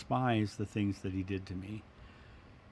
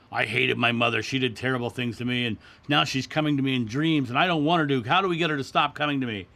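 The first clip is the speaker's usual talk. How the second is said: distressed plea; 3 semitones higher, 7 dB louder than usual. Retold or imitated. Lady's distressed plea, retold.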